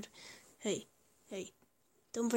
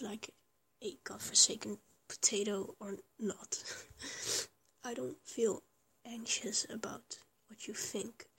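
intimate whisper. Acted. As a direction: whisper tenderly as if lying beside them. Intimate girlfriend roleplay throughout.

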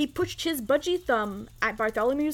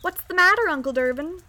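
put-on higher-pitched child calling up; small boy's voice; 6 semitones higher, 4 dB louder than usual. A narrator's reading. Boy below the balcony calling to his uncle, small voice. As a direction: call up like a little boy. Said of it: "A small voice came up".

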